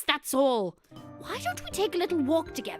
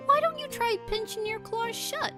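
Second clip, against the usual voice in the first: gentle coaxing; 12 semitones higher than usual. Acted. Coaches Klutzy with the ball.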